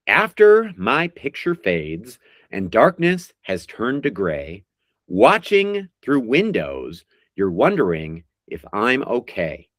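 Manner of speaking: slow, drawn-out recital of song lyrics; dramatic lyric reading. Acted. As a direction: read each line like a heartfelt poem. Reads lyrics as quiz clues.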